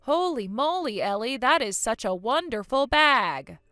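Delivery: half-hearted, sarcastic praise; forced compliment. Acted. Kathy forced to praise Ellie's handbag, grudging sarcastic praise. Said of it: "You can do way better than that".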